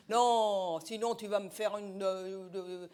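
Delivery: mumbled round a cigarette; cigarette in mouth. Acted. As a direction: let it trail into a muddled mutter, cigarette on the lip. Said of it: "On comprend rien avec la cigarette". (marmonné, cigarette au bec)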